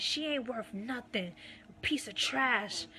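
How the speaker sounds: mock insult. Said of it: "degrading me in front of Ayasha".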